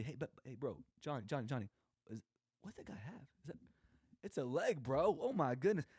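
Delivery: high, hushed then loud excited call; high-pitched hushed alarm rising to a loud oh my goodness; excited whisper to buddy. Retold or imitated. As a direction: nudge your buddy, then blurt it out. Excitedly calling buddy Johnny over.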